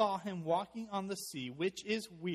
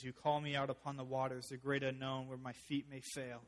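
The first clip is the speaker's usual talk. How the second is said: recited lyrics. Real, not acted. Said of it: "I love the song we sing".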